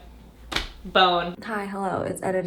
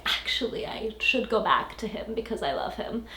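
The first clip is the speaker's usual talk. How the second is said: mock hushed confession; 6 dB quieter than usual. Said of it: "she's like".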